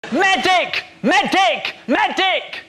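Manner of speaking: yelling for a medic; desperate battlefield shout; man down shout. Acted. Soldier shot, calling for medic.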